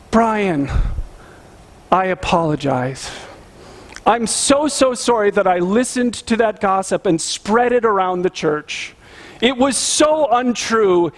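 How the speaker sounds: slow, drawn-out, overly contrite pretend apology; mock apology. Pastor voicing the apology the gossip never gave, mock contrite. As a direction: ham up a penitent confession.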